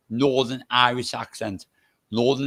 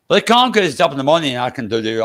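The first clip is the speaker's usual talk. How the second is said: fast, louder burst of words; sped-up talking; 6 dB louder, faster than usual. Shown as a demonstration. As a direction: show how quick you talk when not slowing down. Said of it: "probably have to slow it down".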